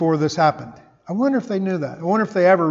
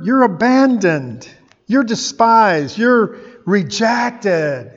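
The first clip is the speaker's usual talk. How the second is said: mocking taunt. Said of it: "All these people are saying".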